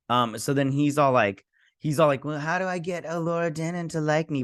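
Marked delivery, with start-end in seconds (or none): 2.2-4.4 mock character voice. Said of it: "he doesn't say it like that".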